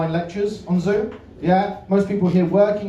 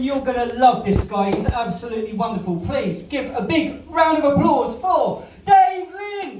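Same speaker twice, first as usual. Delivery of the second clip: big, slow, booming MC call for applause; announcer intro; 6 semitones higher than usual. Real, not acted. MC bringing the comedian on to the crowd, booming slow announcement. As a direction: stretch it out and shout him onto the stage.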